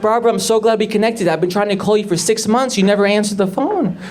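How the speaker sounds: lightly voiced eager caller; TV producer. Producer finally reaching Barbara by phone, lightly put-on eager voice. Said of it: "And he's like".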